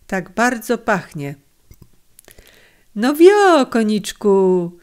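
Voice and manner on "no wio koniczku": gentle urging. A narrator's reading. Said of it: "zachęcił go łagodny głos".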